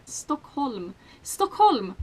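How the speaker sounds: Stockholm said the native Swedish way; Swedish pronunciation. Shown as a demonstration. Swede shows how you pronounce the capital, native Stockholm. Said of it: "That's how you pronounce it".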